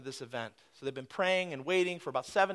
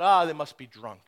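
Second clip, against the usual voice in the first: mock shout; 3 semitones lower, 5 dB louder than usual. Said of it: "someone shouts out".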